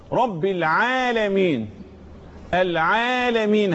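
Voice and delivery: العالمين with the first long aa held; slow teaching demo, lengthened aa in العالمين; natural madd. Shown as a demonstration. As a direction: stretch the عا in العالمين slowly and evenly. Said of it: "مد الطبيعي".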